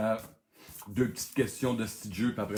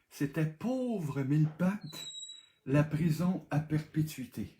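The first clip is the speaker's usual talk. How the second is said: réponse annoncée lentement; 4 semitones higher than usual. Shown as a demonstration. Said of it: "je vais vous donner la réponse".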